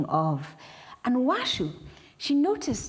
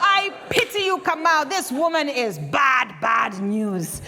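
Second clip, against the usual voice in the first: stern loud elder; 4 dB louder than usual. Acted. Elder condemns wife loudly.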